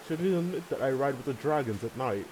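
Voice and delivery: a light, hammed-up Scottish accent; joking Scottish accent, half-laughing; bad Scottish accent. Bad Scottish accent teasing his partner. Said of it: "It's a really bad Scottish accent".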